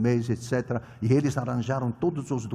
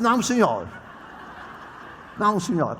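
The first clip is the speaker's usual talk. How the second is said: laughing refusal; 4 semitones higher than usual. Retold or imitated. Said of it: "Eu disse".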